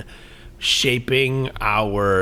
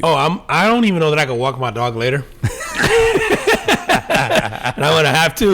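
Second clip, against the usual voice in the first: laughing while talking; 4 semitones higher than usual. Real, not acted. Laughing at own tipsiness.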